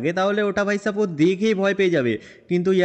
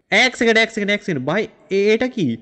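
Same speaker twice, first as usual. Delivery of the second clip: startled alarm; 2 semitones higher, 5 dB louder than usual. Acted. Franklin finding his wardrobe empty, loud startled alarm. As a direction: jolt up in shock at what you see. Finds his suit missing.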